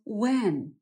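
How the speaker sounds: "when" drawn out slowly, no d; sounds like when. Shown as a demonstration. Teacher explains Wednesday's first syllable, slow clear when. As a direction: say "when" as the English question word. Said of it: "brzmi to jak angielskie słowo".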